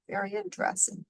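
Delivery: high, soft, breathy whisper; whispered aside. Real, not acted. Commenting on whale temperature to the kids, soft whispered aside. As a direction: share it like a little secret.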